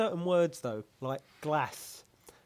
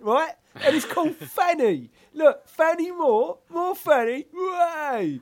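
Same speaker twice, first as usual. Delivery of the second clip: much higher and louder, laughing through the words; giddy laughing tease; 11 semitones higher, 7 dB louder, much slower than usual. Retold or imitated. Showing mates the street name, giddy and laughing. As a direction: squeal it, cracking up at the joke. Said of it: "I'm like".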